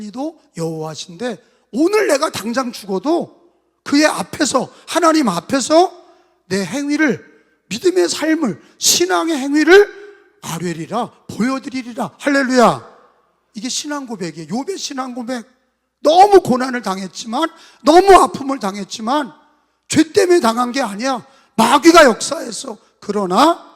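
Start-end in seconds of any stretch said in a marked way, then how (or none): 1.7-12.9 rising fervent proclamation. Acted. Climactic preaching. 16.0-22.8 full force preaching. Acted.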